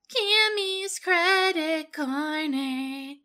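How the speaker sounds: breathless, slow, high announcer voice; excited announcer. Acted. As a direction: announce it like a grand show segment. Gasps, announces a segment title.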